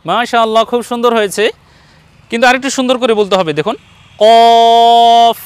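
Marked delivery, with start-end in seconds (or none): 4.2-5.4 কফ as a loud, long "qawf"; thick q and held round vowel in কফ; thick, full sound. Shown as a demonstration. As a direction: draw কফ out heavy from the back of the throat. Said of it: "আওয়াজটা একটু মোটা হবে".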